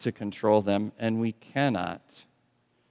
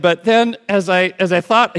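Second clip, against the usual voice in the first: retold nervous dad; 7 semitones higher, 8 dB louder than usual. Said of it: "he said".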